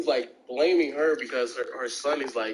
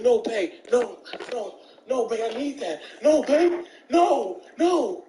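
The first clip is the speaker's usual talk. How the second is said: high, pleading mock wail, rising to louder; desperate begging; 9 semitones higher, 3 dB louder than usual. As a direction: whine like a man who can't take no. Boyfriend begging her, retold.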